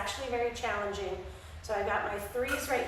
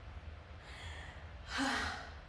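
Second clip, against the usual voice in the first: yawn; 10 dB quieter than usual. Real, not acted. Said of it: "I'm sorry I'm yawning".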